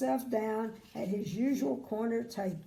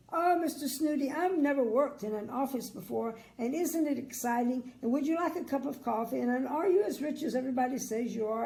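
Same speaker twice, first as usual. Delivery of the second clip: gushing chatterbox; 3 semitones higher than usual. Acted.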